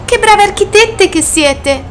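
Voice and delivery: high, slow, loud marvelling; admiring exclamation. A narrator's reading. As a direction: draw out the compliment in delighted wonder. Snail admires the ants' tunnels.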